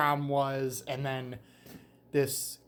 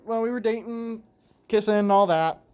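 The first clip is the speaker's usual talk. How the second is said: winded, gasping between words; out of breath; 3 semitones higher, slower than usual. Real, not acted. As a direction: talk while short of breath. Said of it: "I'm winded".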